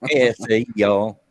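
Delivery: mock redneck attempt at a Hispanic accent; joking redneck-flavored Hispanic accent; redneck doing Hispanic. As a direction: botch a Hispanic greeting with redneck twang. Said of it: "I just sound like a redneck".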